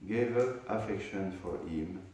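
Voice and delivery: measured reading aloud of a verse; scripture reading. Acted. Teacher reading a scripture verse to students, measured recitation. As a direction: recite the verse, then read out its translation.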